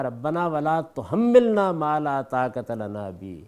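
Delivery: slow, measured Arabic recitation; unhurried scripture reading; Quranic recitation. Real, not acted. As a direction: recite the verse slowly, drawing out vowels.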